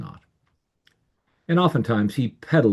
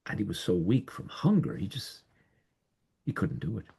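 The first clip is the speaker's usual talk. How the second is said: weak, fading; 8 dB quieter than usual. A narrator's reading. Too weak from hunger.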